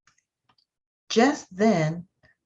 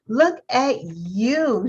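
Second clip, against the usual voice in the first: proud praise; 5 semitones higher, slower than usual. Acted. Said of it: "shouted the wise old click beetle".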